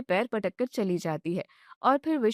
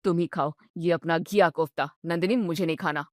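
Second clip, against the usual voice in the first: lower, sulky complaining husband voice; grumpy husband; 5 semitones lower than usual. Acted. Husband grumbling at his wife over dinner, low and sulky. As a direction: whine about dinner like a tired, spoiled son.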